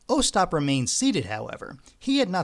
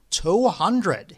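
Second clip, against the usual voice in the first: higher auctioneer call; 5 semitones higher, 4 dB louder than usual. A narrator's reading. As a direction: call the bid for the room. Auctioneer repeats bid.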